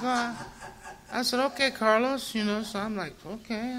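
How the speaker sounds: nervous compliance. Retold or imitated. Nervous agreement giving up gun.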